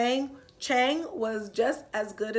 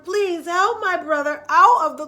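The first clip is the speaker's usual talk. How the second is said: louder, rising urgent begging; pleading; 6 semitones higher, 10 dB louder than usual. Acted. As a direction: beg him frantically to help. Chang begging the old man.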